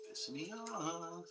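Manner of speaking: slow drawn-out complaint. Real, not acted. Streamer stretching his complaint out slowly. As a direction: stretch each word out slowly and softly.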